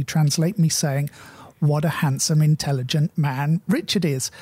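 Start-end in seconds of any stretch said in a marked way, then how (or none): 1.6-4.3 mildly sarcastic mock compliment. Shown as a demonstration. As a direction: praise him with a touch of dry sarcasm. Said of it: "notes of sarcasm in my voice".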